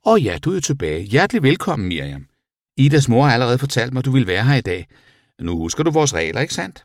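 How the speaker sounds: high, swooping teacher voice; chirpy teacher welcoming a pupil. A narrator's reading. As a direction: greet the pupil in a high, effusive lilt. Teacher figure greets Miriam.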